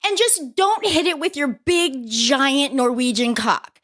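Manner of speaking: a half-joking coach cheering him on; mock coach pep talk. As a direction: egg him on like a pushy coach. Voicing an imagined coach's advice.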